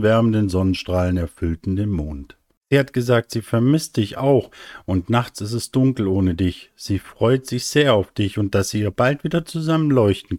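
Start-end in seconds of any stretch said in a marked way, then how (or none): 2.7-10.4 leicht kindliche, höhere Stimme; erzähl es leicht kindlich dem Papa; eifriger kleiner Stern. Acted. (kindlich berichtend)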